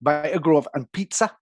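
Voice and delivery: attempted Geordie accent; limited Geordie impression. Shown as a demonstration. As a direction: have a rough go at Geordie. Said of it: "Geordie is the one".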